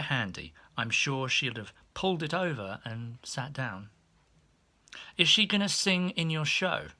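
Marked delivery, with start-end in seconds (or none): 5.2-6.9 much higher, eager prying voice; high, chirpy maid voice; nosy maid. Retold or imitated. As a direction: pepper him with questions. Nosy maid questions him.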